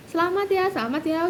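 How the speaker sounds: a light imitation of chirpy friends; friends' congratulations. Classmates congratulating on the group chat, lightly cheery.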